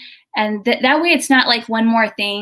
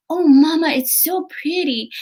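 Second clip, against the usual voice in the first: put-on little girl voice; 7 semitones higher than usual. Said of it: "she goes".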